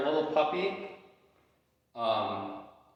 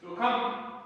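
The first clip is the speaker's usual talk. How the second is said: recall command; 7 semitones higher than usual. Real, not acted. Calling dog.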